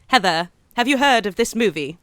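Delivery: hammed-up amateur British accent; bad London accent. Host asking co-host about a film, bad London accent. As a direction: put on a poor London accent. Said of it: "talk in a bad accent".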